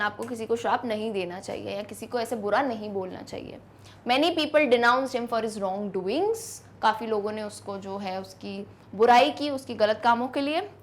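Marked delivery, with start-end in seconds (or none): 4.1-6.5 slow dictation; dictating an example sentence. Shown as a demonstration. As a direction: read slowly so students can copy. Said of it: "जैसे".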